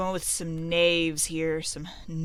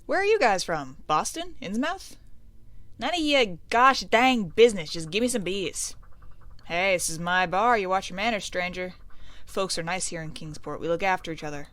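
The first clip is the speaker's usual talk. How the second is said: lightly voiced barkeeper warning a stranger; a hint of small-town tough; testy bar talk; 5 dB louder than usual. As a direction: stand your ground at the bar, firmly. Voices gruff patron and barkeeper.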